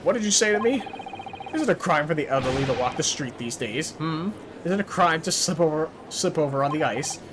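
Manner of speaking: put-on a fed-up old juror bristling at the accusation; indignant old man. Old juror snapping back at the lawyer, mildly indignant. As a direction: huff it out like an offended pensioner.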